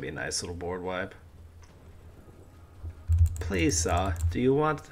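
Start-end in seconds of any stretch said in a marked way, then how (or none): 3.4-4.8 put-on British plea; mock-British begging, rising at the end; British accent. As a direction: ask politely in a playful British accent. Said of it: "keep talking to British accent".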